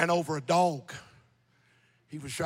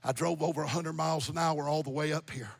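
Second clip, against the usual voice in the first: low, soft imitation of crying; hushed retelling of a brother's tearful words; retold crying; 3 semitones lower, 5 dB quieter than usual. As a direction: quietly voice his tearful plea. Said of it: "He's crying".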